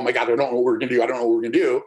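fast, mock-panicked babble; imitating a frantic player in the huddle; panicked quarterback. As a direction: rush it like a quarterback losing his nerve. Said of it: "the guy in the huddle who's freaking out".

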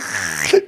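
loud mock slurp of tea; exaggerated noisy sip; tea-sipping slurp. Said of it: "sip their tea".

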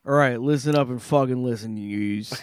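put-on rough Boston accent, barking orders; gruff Boston guy calling the room to order. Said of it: "talking in the Boston accent started".

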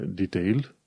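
DETAIL with stress on the first syllable, DEE-tail; British first-syllable stress. Shown as a demonstration. Teacher showing learners British "detail", stress on first syllable. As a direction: punch the DE of "detail". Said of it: "trebuie să pui accentul pe prima silabă".

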